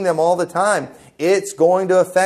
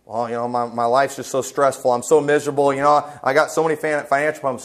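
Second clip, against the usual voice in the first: mock stressed vacationer; 4 semitones lower than usual.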